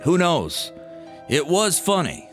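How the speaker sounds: plain reading voice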